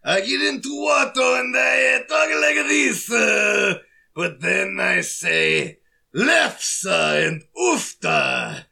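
hammed-up Fargo accent, slow drawn-out words; slow mock-Fargo creature voice; Watto. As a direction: put on a cartoon figure with a Fargo accent. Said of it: "what does Watto sound like with a Fargo accent?".

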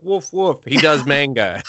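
high, silly dog voice; talking dog. Retold or imitated. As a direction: talk like a cartoon dog. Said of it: "the dog's just gonna be like".

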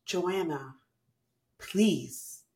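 slow, patient inner voice. Retold or imitated. Inner voice urging tired Joanna, slow and patient. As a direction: gently plead slowly like a conscience. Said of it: "I just hear this voice say".

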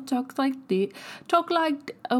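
slipping put-on German accent. Shown as a demonstration. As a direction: try for a German accent and lose it. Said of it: "now I lost it".

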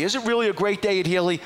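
high-pitched, pressing question; insistent questioning. Retold or imitated. Caller repeating his question to a silent receptionist, insistent. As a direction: demand an honest answer.

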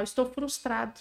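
put-on child's frustration, softly. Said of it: "Qual é o emocional?".

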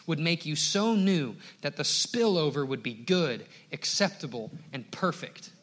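loud, driving pulpit delivery, words hammered out; fervent preaching. Acted. Pastor reading John Piper's charge to the congregation, fervent loud preaching. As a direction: preach it hard, building urgency. Reads Piper quote at full force.

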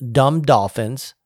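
slow, punched quoted insult; all-caps emphasis. Retold or imitated. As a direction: weigh down each capitalized word. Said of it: "in all caps".

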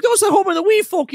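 put-on high, loud old man's rebuke; grandpa scolding. Grandpa yells at kids over the trash, high and loud. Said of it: "he's like".

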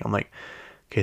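usual speaking voice

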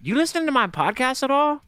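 put-on a light British accent, asking a friend about the podcast. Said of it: "that's my British accent".

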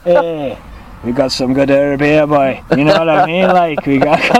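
a light hint of a Jamaican accent; playful mock Jamaican dealer. Podcast host slips into mock Jamaican accent. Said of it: "slips into a bit of Jamaican".

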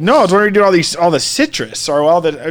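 lightly imitated German accent; a hint of a German lady's accent. German lady asking about all the citrus, light accent. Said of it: "very clear German accent".

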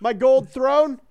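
high, slow mock-shocked pope; playing the new pope, affronted by a gold throne, mock surprise. Voicing the pope's reaction.

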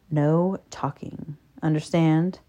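soft, measured rule-giving; dominant reminder. A narrator's reading. Narrator voices man repeating his rule, quietly commanding. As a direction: remind her quietly and firmly.

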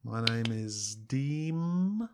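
slow, hammed-up fake Japanese. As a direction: drawl the name in fake Japanese. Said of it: "It's fake Japanese".

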